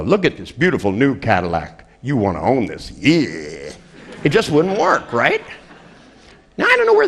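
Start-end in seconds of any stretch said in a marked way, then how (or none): 0.0-3.7 mock salesman pitch. Shown as a demonstration. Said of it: "You don't go".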